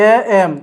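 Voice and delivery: "এ এম" sounded out as two parts, vowel first; pronunciation demo. Shown as a demonstration. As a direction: break "এ এম" into its opening vowel and 'm'. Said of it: "যদি উচ্চারণটা করি". ("এ এম" ভেঙে উচ্চারণ)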